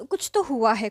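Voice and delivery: hammed-up prying; insistent know-it-all. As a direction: imitate him insisting he knows. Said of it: "अंतर्यामी बन रहा था".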